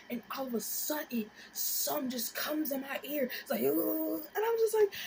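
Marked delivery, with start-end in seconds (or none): 3.6-4.2 high rising "ooh"; high buzzy swoop; imitated bug noise. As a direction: mimic a bug zooming into the ear. Imitates bug entering her ear.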